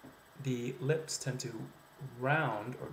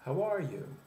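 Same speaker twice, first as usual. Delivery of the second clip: "How are you" with a high lift in pitch; American greeting inflection; 6 semitones higher, 4 dB louder than usual. Shown as a demonstration. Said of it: "tends to happen at the end of the sentence".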